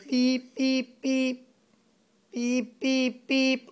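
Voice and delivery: robot beeps, slowing at the end. Shown as a demonstration. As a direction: show him how a robot beeps. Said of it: "that's what the robot says".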